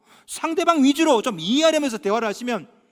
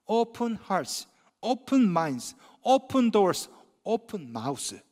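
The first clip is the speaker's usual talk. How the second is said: slogan with added line; much slower than usual. Shown as a demonstration. Pastor adding his own line to the slogan, slow. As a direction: build the list then soften on open mouths. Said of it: "한 가지를 더 애드하고 싶".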